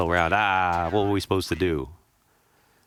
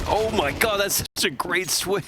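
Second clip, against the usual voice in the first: excited; 12 semitones higher, slower than usual. Real, not acted. Amazed at a great play.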